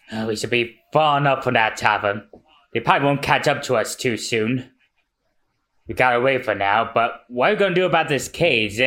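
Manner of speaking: worn-out fugitive. Acted.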